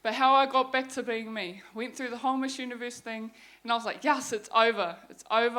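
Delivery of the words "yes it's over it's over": loud mock-celebratory declaration; a retold burst of relief, loud and emphatic. Speaker recalling the pageant finally ending, retold relief.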